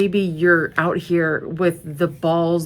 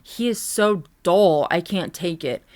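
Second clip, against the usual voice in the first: slow mocking complainer voice. Mocking an online complainer, slow and sneering. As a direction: parody the annoyed viewer. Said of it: "This drives me crazy".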